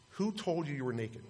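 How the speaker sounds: softly voiced question from God; understated quoted question; quiet question. Voicing God's question, first take.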